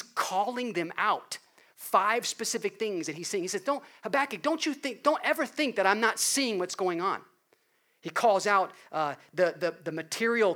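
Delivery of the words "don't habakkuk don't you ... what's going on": voicing God. God voiced warning Habakkuk.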